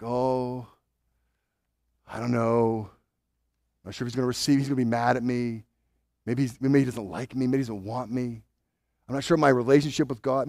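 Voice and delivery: soft, hesitant and unsure; a timid believer afraid to approach God; halting timid prayer. Retold or imitated. A believer timidly praying to God, soft and hesitant. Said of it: "If you come to God haltingly".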